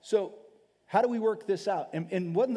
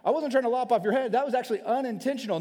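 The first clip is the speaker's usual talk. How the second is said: placating spouse; 6 semitones higher, 5 dB louder than usual. Retold or imitated.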